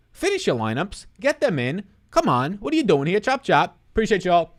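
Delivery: loud, high hurry-up calls; urging shout. Real, not acted. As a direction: shoo them out, loud and high. Hurrying viewers off the stream.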